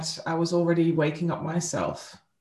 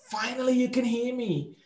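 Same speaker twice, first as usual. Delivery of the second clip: higher-pitched, eager "at last"; imitating a dog's delighted relief; excited dog's voice; 6 semitones higher than usual. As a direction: voice an excited dog finally being heard. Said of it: "he was so excited".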